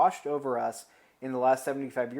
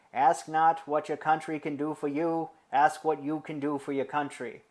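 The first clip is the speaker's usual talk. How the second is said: put-on JFK-style Boston accent, raised a little; Bostonian accent; 3 semitones higher, 3 dB louder than usual. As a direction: quote it like Kennedy in a Boston accent. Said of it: "Let me do that again".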